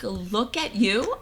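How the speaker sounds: slow, drawn out, rising on YOU; retold look-at-you retort. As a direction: repeat it slowly with a lifted, stretched YOU. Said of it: "I was like".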